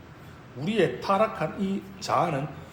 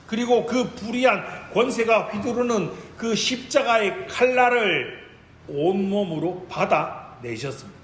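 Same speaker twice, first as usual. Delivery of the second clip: forceful, raised sermon voice; impassioned preaching; 3 semitones higher, 4 dB louder than usual. Real, not acted. Preacher proclaims Christ's trust before unjust power, impassioned. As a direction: drive each phrase home to the congregation.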